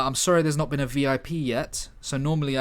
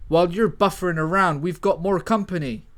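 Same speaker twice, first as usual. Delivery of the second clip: loud, higher taunt; action quip; 4 semitones higher, 6 dB louder than usual. Acted. Hero taunts enemies while fighting. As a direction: toss off the quip mid-fight.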